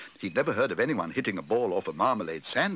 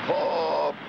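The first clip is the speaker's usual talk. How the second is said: higher, long-held shout over noise; golfer's raised-voice call; shouted warning; 6 semitones higher, 4 dB louder than usual. A narrator's reading. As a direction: call it out above a din. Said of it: "shouted Arnold Parker above the noise".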